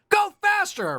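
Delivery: high squeaky slug cry; slug creature voice. Pretend. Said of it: "That's what he sounds like".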